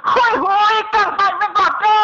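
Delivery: high crying wail. Acted. Sending someone off, high crying wail. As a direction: cry it out as a farewell. Wailing farewell cry.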